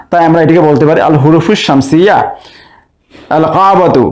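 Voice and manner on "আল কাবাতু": "আল কাবাতু" with the article's lam audible; lam pronounced. Shown as a demonstration. Teacher showing students the lam sounded in "আল কাবাতু". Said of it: "আলিফ লামের লাম উচ্চারণ হচ্ছে".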